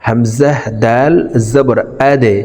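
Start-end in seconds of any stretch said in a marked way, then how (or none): 2.1-2.4 আদে with the d pushed into a bounce; downward qalqalah. Shown as a demonstration. Teacher demonstrating dal, আদে with a bounced d. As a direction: release the d of আদে with a downward echo. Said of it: "ধাক্কা দিয়ে উচ্চারণ করব".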